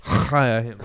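"Hire" with a throaty kh for the H; guttural H. Retold or imitated. Mocking a film accent, guttural H on "Hire". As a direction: scrape the H of "Hire" in the back of the throat.

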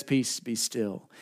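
calm command. Retold or imitated. Jesus calming the storm.

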